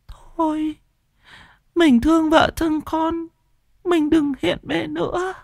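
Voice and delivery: high, keening plea to her dead husband; wailing widow. A narrator's reading. Widow Liên wailing at her dead husband's ghost to go in peace. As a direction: wail and beg him not to haunt them. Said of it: "con Mụ Liên mới gào khóc".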